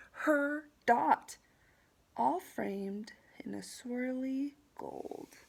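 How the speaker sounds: expressive storybook narration, key words punched; picture-book reading. A narrator's reading. Teacher reading to students about the framed dot, storybook narration. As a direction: build to the reveal for young listeners.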